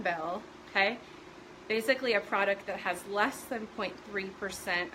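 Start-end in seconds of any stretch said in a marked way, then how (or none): 1.7-4.9 a little winded, talking on; breathless from talking fast; out of breath. Real, not acted. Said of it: "I'm all out of breath now".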